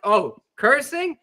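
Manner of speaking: slow, high mock indignation of an Irish fan; a light imitation of an offended stranger repeating the word. Angry Irish fan questioning the cursing, lightly imitated indignation. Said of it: "he's like".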